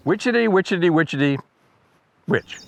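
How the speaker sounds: rhythmic yellowthroat imitation; even beats, then a detached final "witch"; birdsong mnemonic. Shown as a demonstration. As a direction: chant the bird call, pausing before the last word. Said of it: "an easy to remember song".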